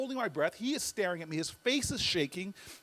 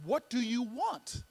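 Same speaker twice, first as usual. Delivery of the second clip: slow, deliberate question; slow, looming question; 2 semitones higher, slower than usual. Retold or imitated. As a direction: space the words out like a looming giant. Looming giant questions him.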